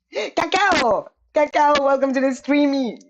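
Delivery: talking through hiccups; hiccuping between words. Real, not acted. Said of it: "sorry, I got the hiccups".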